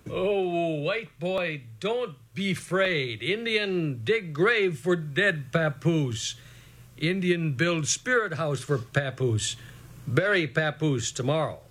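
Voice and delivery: slow, sorrowful and afraid; sad grieving father. A narrator's reading. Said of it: "His voice sounded like it was afraid and very sad".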